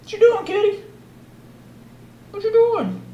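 very high cooing question. Real, not acted. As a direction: coo curiously to a kitty. Cooing to the cat.

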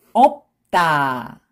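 없다 joined as 업따, tense tt; read together. Shown as a demonstration. Teacher shows how it reads together, linked pronunciation. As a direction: link 없다 with a hard 따. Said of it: "When you read it together".

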